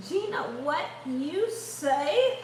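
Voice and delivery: slow drawn-out teasing call; drawn-out tease. Pretend. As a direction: stretch it out lazily like a joke. Teasing repeated call to Gina.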